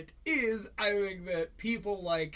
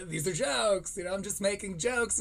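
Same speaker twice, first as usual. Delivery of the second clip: Ty impression. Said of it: "he would hate that impression".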